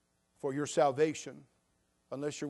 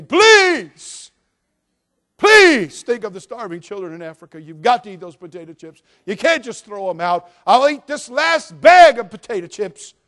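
high, much louder pleading voice of the potato chips; tempting potato chips; 6 semitones higher, 19 dB louder than usual. Acted. Preacher voicing the tempting potato chips, high loud pleading. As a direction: beg like a snack desperate to be eaten, high and loud. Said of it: "The potato chips say".

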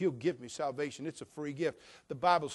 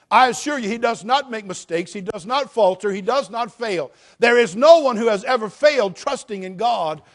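loud, higher, driving preacher voice; full-force preaching; 6 semitones higher, 13 dB louder than usual. Acted. Pastor assuring the church God never fails, full-force preaching. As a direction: pound the assurance home to the congregation.

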